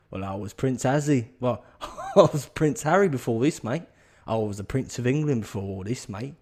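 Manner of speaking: put-on Cockney mechanic; amateur Cockney impression, lively; Cockney accent. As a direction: play him as a matey Cockney. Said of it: "He's got a cocky accent now".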